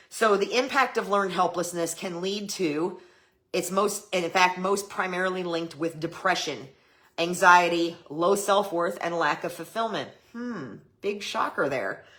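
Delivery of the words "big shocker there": sarcastic, ironic feigned surprise, as aside. Listing known effects of learned helplessness, then commenting: sarcastic. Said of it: "I'm being sarcastic".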